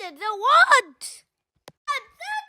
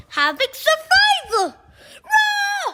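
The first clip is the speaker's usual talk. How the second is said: crying out in mock panic; pretend alarm cry. Child warning friends in play, alarmed cry. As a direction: yell the alarm like a scared kid.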